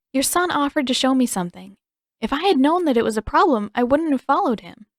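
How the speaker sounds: lightly voiced girl, nervous apology; anxious girl explaining herself; young girl voice.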